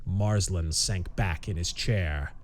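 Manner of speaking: slow, measured pulp audiobook reading; story narration. A narrator's reading. Narrator unfolding a tense pulp mystery, measured story narration. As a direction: read it deliberately, with suspense between phrases.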